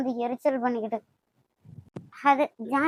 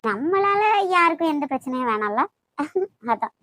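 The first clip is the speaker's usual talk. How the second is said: mocking. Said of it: "என்னடி நக்கலா பண்ற?".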